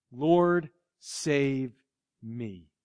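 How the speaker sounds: fading soft plea, falling away to almost nothing; a hushed, desperate prayer; whisper-soft cry to the Lord; quiet cry for help. Retold or imitated. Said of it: "you've got to cry out".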